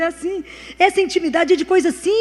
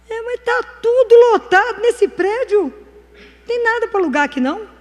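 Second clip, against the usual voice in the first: acted-out disbelief, pitched up; retold astonishment; 7 semitones higher, 4 dB louder than usual. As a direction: exclaim it as if taken aback. Retold exchange over fully booked building.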